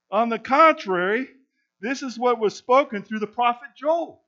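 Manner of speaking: proclaiming the passage, measured and firm; scripture reading. Acted. Pastor reading Peter's sermon aloud to the congregation, proclaiming. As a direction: read it like Peter addressing the crowd.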